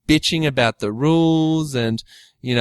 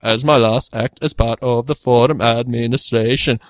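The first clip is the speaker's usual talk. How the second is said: put-on German accent. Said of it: "let's get a German accent".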